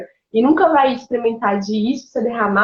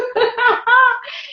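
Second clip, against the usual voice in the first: laughing; 11 semitones higher than usual. Real, not acted. Ri depois da frase.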